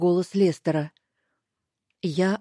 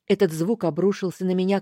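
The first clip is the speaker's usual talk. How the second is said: ordinary delivery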